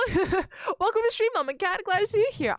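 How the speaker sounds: bright greeting. Real, not acted. Greeting a new stream viewer.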